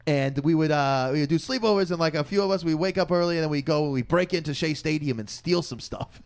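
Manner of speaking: lightly imitated New York storyteller; retold New York accent; old New Yorker accent. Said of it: "old New Yorker".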